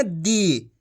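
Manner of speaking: दी with a long drawn-out ī. Shown as a demonstration. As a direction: stretch the vowel in दी. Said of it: "खींच के पढ़ा जाता है".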